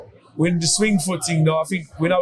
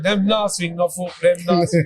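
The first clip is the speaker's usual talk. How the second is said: Jamaican patois. Retold or imitated. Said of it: "So I said".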